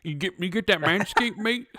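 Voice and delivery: badly faked British accent. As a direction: have a halting go at sounding British. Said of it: "a British accent next time".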